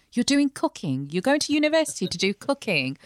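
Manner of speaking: incredulous. Retold or imitated. Relatives questioning a cousin's cooking degree, incredulous. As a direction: imitate relatives baffled by the choice.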